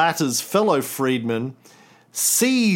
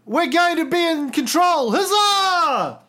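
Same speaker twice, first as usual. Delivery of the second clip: roaring rallying speech. Retold or imitated. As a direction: rouse the troops with a cheer. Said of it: "He said".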